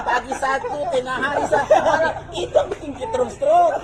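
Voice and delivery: high and loud, words broken by laughter; can barely get the words out for laughing; laughing through words. Real, not acted. The preacher delivers the pill-schedule punchline to the congregation, high and loud, laughing throughout.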